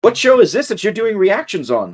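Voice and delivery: high, swooping leading question; mock prompting. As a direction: ask it like an exaggerated on-air setup. Repeats the plug question, corrected.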